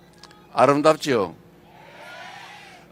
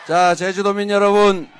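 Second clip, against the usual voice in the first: loud rally greeting; 3 semitones higher, 6 dB louder than usual. Real, not acted. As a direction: call out to the whole crowd.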